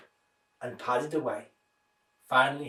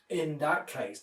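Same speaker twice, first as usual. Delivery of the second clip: angrier growl; 4 dB quieter, slower than usual. Acted. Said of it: "growled even more angrily".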